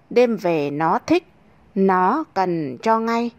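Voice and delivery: lilting verse read with a cheeky swing; poem recitation. Acted. Narrator reciting a bawdy verse to listeners, lilting and cheeky. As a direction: recite it like a playful folk rhyme.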